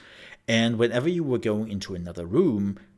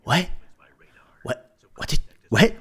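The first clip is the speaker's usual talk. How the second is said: baffled; 8 semitones higher, 5 dB louder than usual. Retold or imitated. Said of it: "It's like".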